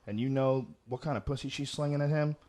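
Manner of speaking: ordinary talk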